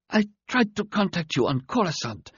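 high, thin, weak alien voice; a dying alien, straining to speak. A narrator's reading. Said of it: "began in a weak voice".

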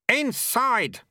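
loud, high shouted command; roar. A narrator's reading. Lutze orders Lobsang inside, roaring. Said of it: "Lutze roared".

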